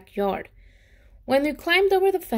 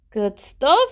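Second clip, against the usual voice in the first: mumbled mouthful; 2 semitones higher, 6 dB louder than usual. Acted. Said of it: "he mumbled through a mouthful".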